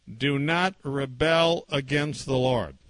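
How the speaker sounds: slow, deliberate recital; lightly imitated verse recital, word by word; child's recitation. Little daughter recites memory verse to her father, slow and measured. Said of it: "her memory verse was".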